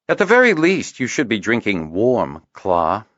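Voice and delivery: sharp scolding, high on the opening; rebuking. A narrator's reading. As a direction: scold him like a worried friend. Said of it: "he rebuked the healer".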